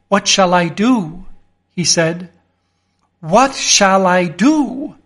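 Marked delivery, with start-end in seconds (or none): 3.2-5.0 slow, lost, worried asking; helpless, frightened mumble to himself; slow anxious repeat. Acted. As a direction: turn the question over in despair. Same question repeated.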